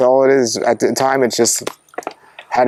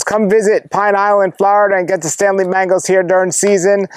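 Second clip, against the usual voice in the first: raised, rolling presenter delivery; video host sign-off; 5 semitones higher than usual. Real, not acted. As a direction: address the viewers in a pitched-up hosting voice. Host's sign-off to viewers.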